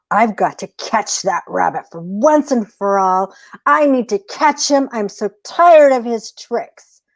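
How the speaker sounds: building up, fed up with being tricked; eager coyote. Acted. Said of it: "He's like".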